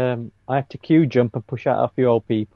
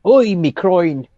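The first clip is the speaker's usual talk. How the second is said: slow, higher thick Irish cry of pain; an Irishman just hit in the balls; pained Irish accent; 4 semitones higher, 3 dB louder, much slower than usual. Acted. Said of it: "Reminds me of an Irishman being hit in the balls".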